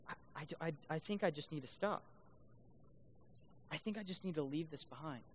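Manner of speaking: soft, halting, recalled self-talk; hushed inner voice, retold; quiet resignation. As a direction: say it low, as if deciding to give up. Retells his hard decision to quit.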